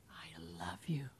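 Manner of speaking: soft unvoiced whisper, rising at the end; whispered love. Jesus whispering from the cross to mankind. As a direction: murmur it like a last breath. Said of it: "saying to mankind".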